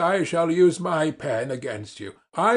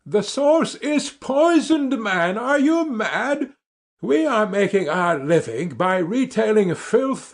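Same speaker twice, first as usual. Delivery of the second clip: higher, heated protest; angry outburst; 4 semitones higher than usual. Acted. Doctor to his brother, furious about the poisoned baths. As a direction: hammer the truth at him.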